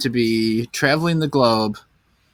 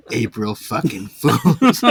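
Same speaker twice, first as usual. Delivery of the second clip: drawn-out prank reveal; much slower than usual. Acted. Mock reveal to a dying victim.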